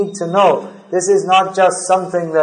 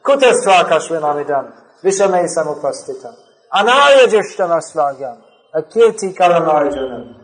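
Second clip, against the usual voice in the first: firm, emphatic recitation of a scolding; forceful rebuke. Retold or imitated. Krishna rebuking the lamenting Arjuna, forceful and firm. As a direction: recite it as a stern charge. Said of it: "So Krishna is speaking like, like that to Arjuna".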